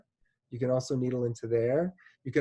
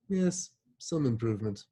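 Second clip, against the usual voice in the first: put-on British accent; 3 semitones lower, 4 dB quieter than usual. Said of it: "I naturally put a British accent on metal C Fs".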